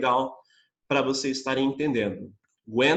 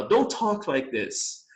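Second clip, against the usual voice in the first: slow model; 3 semitones higher, much slower than usual. Shown as a demonstration. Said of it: "é mais comum ouvir um americano falar".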